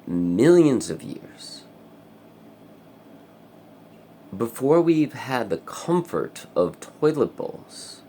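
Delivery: slow, loud preachy speech; slow, loud pompous lecture; mock sermon. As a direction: proclaim it slowly like a grand truth. Mock-grand lecture on peeing.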